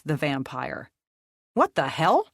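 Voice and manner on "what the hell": high startled blurt; sudden shocked outburst. Acted. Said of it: "Nicole blurted".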